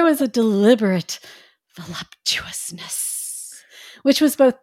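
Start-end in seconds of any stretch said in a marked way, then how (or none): 1.8-3.6 slow whisper. Acted. Reading sensual word.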